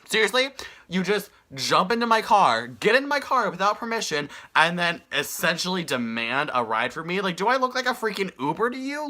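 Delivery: high-pitched indignant disbelief; telling off the stranger who jumped into her car; exasperated outrage. Retold or imitated. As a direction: let him have it, appalled. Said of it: "And I'm just like".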